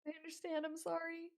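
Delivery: put-on high, subdued teen apology; meek girl voice. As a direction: answer small and sorry. Scolded girl answers meekly.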